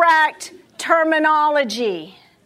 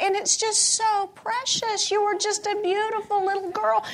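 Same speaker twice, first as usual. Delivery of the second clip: put-on higher, cooing voice to a baby girl, softening at the end; tender baby talk; 6 semitones higher than usual. A parent cooing to an infant daughter while changing her diaper, sing-song and higher. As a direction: coo over a baby during a diaper change. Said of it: "infants only listen to tone of voice".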